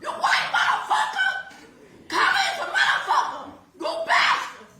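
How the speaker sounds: ragged crying fury, spat-out curses; enraged yelling. Real, not acted. Mother curses the defendant across the courtroom, sobbing fury. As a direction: threaten him while sobbing and shaking with rage.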